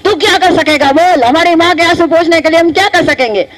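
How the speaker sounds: a hint of a burly brother challenging; Bhim's bossy voice. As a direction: prod Arjun hard for an answer. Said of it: "Bhim ने ऐसे बोला".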